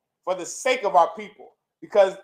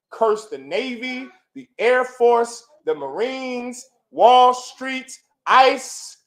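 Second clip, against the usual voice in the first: slow, building to louder cries; rising curse list; 4 semitones higher, 3 dB louder, much slower than usual. Real, not acted. Preacher cursing institutions one by one, building louder. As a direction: pound out each name as a curse.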